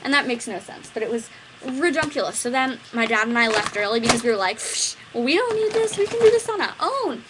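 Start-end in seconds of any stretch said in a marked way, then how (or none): 4.6-7.2 higher, louder, scoffing; dismissive. Retold or imitated. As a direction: brush it off proudly. Dad and I leaving.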